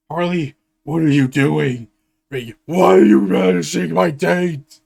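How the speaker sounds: loud outraged yelp; indignant shout. Acted. Joker yelling at Harley for vanishing his date. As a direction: yell it at Harley in protest.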